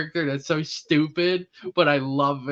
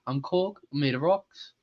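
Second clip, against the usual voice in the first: Korg impression; 3 dB quieter than usual. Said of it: "Taika Waititi voices Korg".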